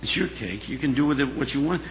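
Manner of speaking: soft, acted reassuring voice; gentle reassurance. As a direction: tell her softly, leaving space between phrases.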